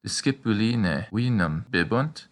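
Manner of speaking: slow Latin question, rising at the end; rising question tune. Shown as a demonstration. Teacher modeling a yes/no question in Latin, rising. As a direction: lift the end of bibunt into a question. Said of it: "we also add a rising intonation at the end".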